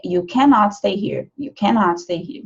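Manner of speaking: cannot said in full with both syllables, You cannot stay here; formal full cannot. Shown as a demonstration. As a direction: stress the not in cannot. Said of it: "se for o full form, que é mais formal".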